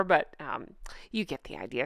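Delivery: hushed whispered aside; whispering. Real, not acted. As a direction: drop to a whisper. Hushed aside about official photo.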